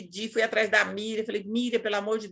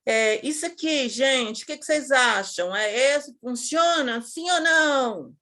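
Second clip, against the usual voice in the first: imitating the trainer; 3 semitones higher than usual. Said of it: "Aí ela falava".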